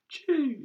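"Choo!" pushed out high with a sharp hiss; fricative demo. Shown as a demonstration. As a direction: squeak out "Choo!" as a sound demo. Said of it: "a bit more difficult for him".

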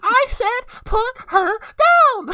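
slow hammed-up "put her down!" with every word dragged; drawn-out shout. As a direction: stretch it into a furious roar. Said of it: "And Ryan's like".

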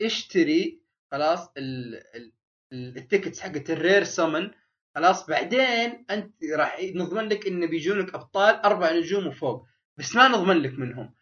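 playing the pushy game as it sells, lightly voiced; mock game pitch. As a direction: sell it like a slick salesman, half mocking. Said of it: "لازم يقول لك". (صوت البائع الملحّ بتقليد خفيف)

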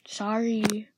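drawn-out, grudging mock apology; eye-rolling sorry. Shown as a demonstration. Acting Jessica dismissing her friend, eye-rolling. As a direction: say sorry as if rolling your eyes. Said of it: "and rolling your eyes".

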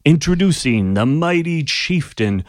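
booming announcer, slow, high and loud; magically amplified voice. Acted. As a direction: herald the challenger, big and drawn out. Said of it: "the voice once again booms".

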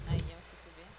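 faint voice far from the microphone; far from mic. Real, not acted. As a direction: speak from across the room. (lejos del micrófono)

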